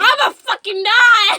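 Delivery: slow, far mocking wail; teasing a friend by faking her fear; mock panic. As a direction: ham up a scared friend. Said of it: "She's like".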